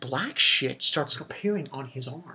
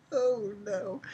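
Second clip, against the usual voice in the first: hushed, dismayed whisper; 6 semitones higher, 7 dB quieter than usual. Retold or imitated. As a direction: breathe it out in dread. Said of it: "And I was like".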